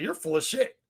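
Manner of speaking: lightly rasped, a hint of grit; raspy voice. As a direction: rasp it out bluntly. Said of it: "you get that raspy voice".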